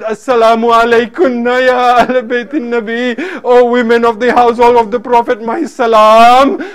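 retold reverent greeting, stretched at the end; declaimed salutation; calling out. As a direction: call out a salutation, drawing out the last word. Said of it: "He called out and said".

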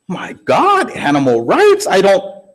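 retold startled protest; mock shock. Husband reacting to wife shooting the mule, mock-shocked.

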